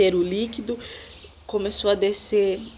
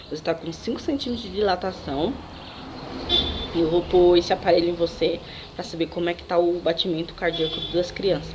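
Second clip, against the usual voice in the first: lower, softer calm doctor; lightly voiced doctor; 5 semitones lower, 5 dB quieter than usual. Doctor explaining to the patient, low and soft. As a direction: report the dilation like a calm doctor.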